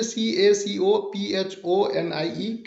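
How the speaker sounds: letters read slowly one by one; slow spelling out. Shown as a demonstration. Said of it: "spelling देख लीजिए". (धीरे-धीरे spelling)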